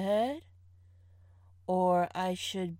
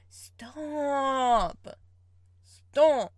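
laughing protest; 6 semitones higher, 7 dB louder than usual. Real, not acted.

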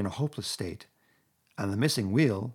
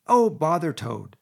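slow, loud, venomous; savage; 6 semitones higher, 7 dB louder, slower than usual. A narrator's reading. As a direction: spit the name out in disgust. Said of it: "said the rat savagely".

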